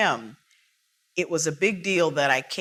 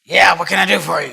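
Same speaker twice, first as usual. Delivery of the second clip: brisk, gruff bandleader, louder; a lightly gruff older man; 3 semitones higher, 12 dB louder, faster than usual. Retold or imitated. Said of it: "he's got a gruff voice".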